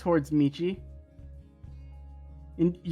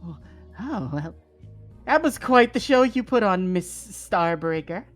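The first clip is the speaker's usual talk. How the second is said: smarmy greeting. Acted. Scheming parent greets daughter.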